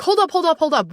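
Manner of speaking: high emphatic hold up; halting call. Acted. Coach stopping her clients mid-spiral, high and emphatic. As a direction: throw up a hand and stop them.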